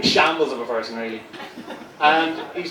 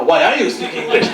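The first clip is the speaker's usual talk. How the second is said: put-on a slipping French accent, louder; 2 semitones higher, 5 dB louder than usual. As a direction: attempt a French accent and half lose it. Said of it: "I lost myself in my own accent".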